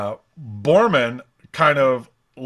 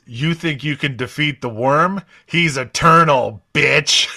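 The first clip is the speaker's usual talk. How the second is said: crone voice; 3 semitones higher, 4 dB louder than usual. Retold or imitated. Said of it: "the crone says".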